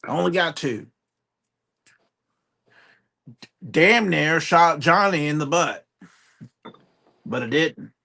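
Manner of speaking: quick Southern hunting-tale patter; Southern accent. Pretend. Hunter explaining he missed his limit, Southern accent. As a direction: ramble through a hunting excuse in Southern. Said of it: "but you started it".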